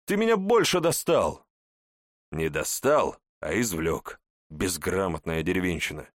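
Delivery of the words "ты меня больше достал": much higher, pitched-up yell; high shout. A narrator's reading. Hawk yells at the old man who mocks him, shrill shout. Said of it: "кричит ястреб".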